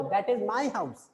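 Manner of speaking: "house" drops at the end; statement tune, down on "house"; falling intonation. Shown as a demonstration. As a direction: let the last word HOUSE fall. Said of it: "fall, मतलब नीचे गिर रहा है".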